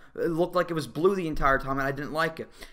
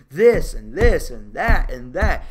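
mock yell; 6 semitones lower, 6 dB louder than usual. Mocking the villain's constant yelling.

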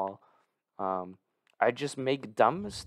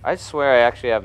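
frustrated yell; 2 semitones higher, 9 dB louder than usual. Real, not acted. Frustrated at own mistake.

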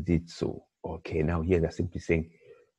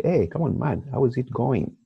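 bright, higher casual "Hey, come on, man"; casual greeting; 5 semitones higher, 3 dB louder than usual. Retold or imitated. Teacher acting a casual English greeting to a friend. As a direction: greet a buddy loosely. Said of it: "sometimes we ask somebody".

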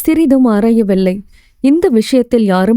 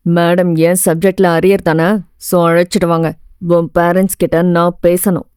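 strict lecturer; 5 semitones lower than usual. Acted. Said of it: "கண்டிப்புடன் கூற".

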